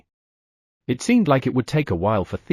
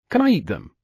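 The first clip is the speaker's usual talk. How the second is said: higher, eager little bear voice; eager baby bear; 6 semitones higher than usual. Acted. Baby bear asking to eat the wolves, higher and eager. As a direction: beg like a hungry cub.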